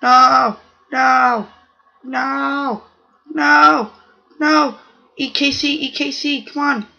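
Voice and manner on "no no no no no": repeated loud no's. Real, not acted. Gamer panicking as his cells get eaten, loud no's. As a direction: shout no each time you get hit.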